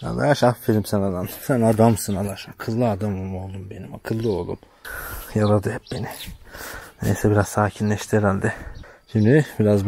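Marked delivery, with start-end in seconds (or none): 0.0-4.6 tender praise. Real, not acted.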